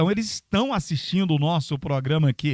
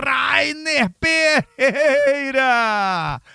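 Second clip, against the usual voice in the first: stretched-out name call, higher; hyped name call; 7 semitones higher, 4 dB louder, much slower than usual. Acted. Hyping the director's name.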